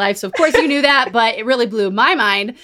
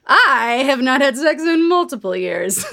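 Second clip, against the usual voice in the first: laughing disbelief; 3 semitones higher than usual. Real, not acted. Telling her cohost the absurd diagnosis, laughing. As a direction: laugh through the words, half crying.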